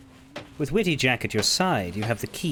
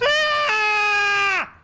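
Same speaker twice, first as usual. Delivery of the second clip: sudden high shouted yelp; startled yelp; 5 dB louder than usual. Real, not acted. Streamer jolted by a sudden shout from the ship, high startled yelp. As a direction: jump and yelp in surprise.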